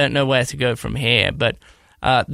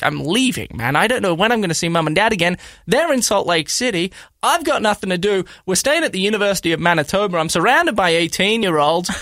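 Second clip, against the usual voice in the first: higher, fast, exasperated listing; retold complaint; 5 semitones higher than usual. Telling teammates why he is leaving, high fast exasperation. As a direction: rattle off the grievances, pitched up.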